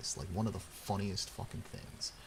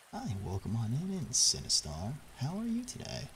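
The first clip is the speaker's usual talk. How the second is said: mock greeter; 3 semitones higher than usual. Comic greeting to Sinistar.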